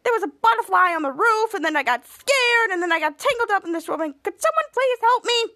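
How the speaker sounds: high, hammed-up distress; mock panicked pleading. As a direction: plead for rescue like a frightened kid. Tangled character explains, begs for help.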